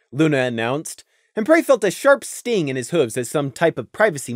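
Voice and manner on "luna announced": ordinary delivery, nothing marked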